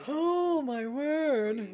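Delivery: sudden loud startled outburst; loud exclamation. Real, not acted. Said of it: "was a little louder than usual".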